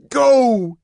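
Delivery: high, loud command; furious shout. A narrator's reading. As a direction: bark her out of the room. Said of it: "he shouted".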